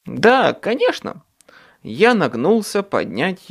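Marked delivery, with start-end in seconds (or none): 0.0-1.2 whisper. Acted. Harry gasping to Charity.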